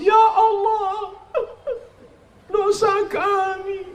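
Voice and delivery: high, slow hammed-up wailing; mock crying prayer. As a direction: fake a tearful plea to God. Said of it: "Mau nangis".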